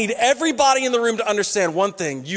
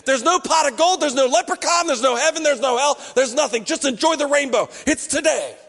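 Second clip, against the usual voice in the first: dismissive; 3 semitones higher than usual. Acted. Mock nihilist listing.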